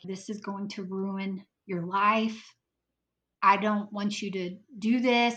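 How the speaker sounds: mock angry crying, tearful. Retelling a man holding the speaker's shoulders, begging them not to go back: imitating angry crying. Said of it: "he's like angry but crying".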